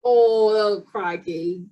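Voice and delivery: drawn-out Australian exclamation; Aussie-accented exclamation. Shown as a demonstration. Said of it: "do a good Australian accent".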